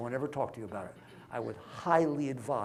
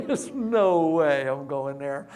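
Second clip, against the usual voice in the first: emphatic refusal; 2 semitones higher, 10 dB louder, much slower than usual. Retold or imitated. Acting out a refusal.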